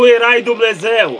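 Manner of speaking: excited shout. Real, not acted. Interpreter echoes climax.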